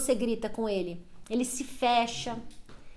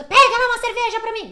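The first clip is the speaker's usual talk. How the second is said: higher, louder mock party shout; mock shout across a party, much higher and louder; mock yell; 9 semitones higher, 8 dB louder, faster than usual. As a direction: yell it like at a noisy club. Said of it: "gritava com as".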